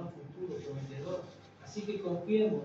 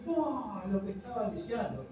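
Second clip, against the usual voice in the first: put-on excited child; 6 semitones higher than usual. Grandson thrilled by a gift.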